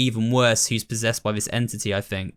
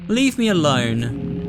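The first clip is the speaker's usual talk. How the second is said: slow evil mastermind voice; wicked voice; 3 semitones higher, much slower than usual. Acted. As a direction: drag it out like a scheming villain. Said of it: "I do my, like, wicked voice for him".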